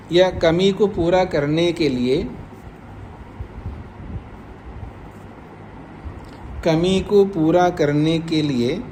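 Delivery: measured, slow dictation pace for writing. Shown as a demonstration. Teacher dictating the sutra's meaning to students, slow and measured. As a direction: spell it out slowly so students can write. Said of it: "का अर्थ लिख जाइए, लिखिएगा".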